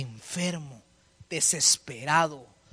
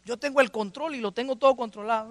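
overconfident boast; 5 semitones higher than usual. Acted. Mocking people who claim control.

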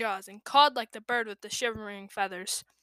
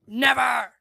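spat; 7 dB louder than usual. A narrator's reading. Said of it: "I spat".

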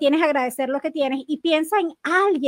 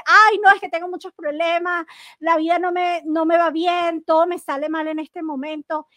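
complaining answer; 2 semitones higher, 3 dB louder than usual. Retold or imitated. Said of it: "cómo cambia el tono".

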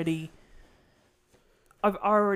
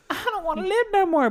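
despairing wail; 13 semitones higher, 5 dB louder, faster than usual. Pretend. Imagining grief over a dead fiancé.

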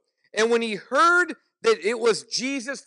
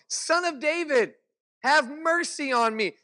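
higher pitched retold cry for mercy, pleading; crying out all the more; 6 semitones higher than usual. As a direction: lift the voice in a preacher's mock plea. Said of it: "he kept crying out all the more".

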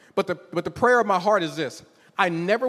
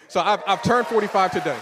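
excited announcement; 2 semitones higher, 4 dB louder than usual. Real, not acted.

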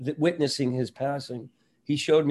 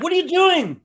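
shocked protest; 8 dB louder than usual. Retold or imitated. Hand stuck in his pants.

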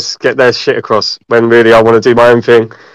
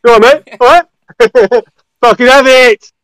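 higher hammed-up Essex geezer; Essex accent; 8 semitones higher than usual. Hamming Essex lad greetings.

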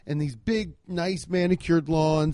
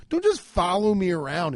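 exasperated rant; 3 semitones higher than usual. Pretend. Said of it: "I wanted to say".

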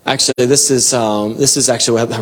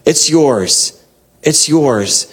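higher-pitched, urgent surrender; crying out in worship; 3 semitones higher than usual. Acted. Elders giving their crowns back to God, crying out. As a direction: plead to hand it all over, pitched up. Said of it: "They're crying out".

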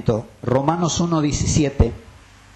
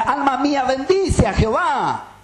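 quoting David's plea; 9 semitones higher than usual. Retold or imitated. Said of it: "decía".

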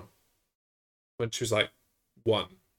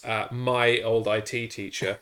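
ordinary delivery

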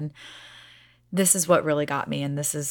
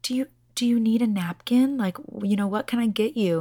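smiling; 5 semitones higher, 3 dB louder than usual. Retold or imitated. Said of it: "just kept smiling and said".

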